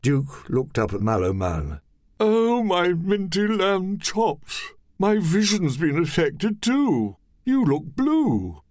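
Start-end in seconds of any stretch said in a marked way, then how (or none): 2.2-8.6 high, slow amazed exclaim; astonished. Acted. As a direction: gasp at what you see. Duke astonished.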